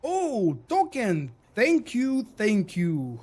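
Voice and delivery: high, drawn-out surprise, then quick thanks; delighted surprise. Real, not acted. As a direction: react with real, high-pitched delight at a gift. Surprised by a gifted token.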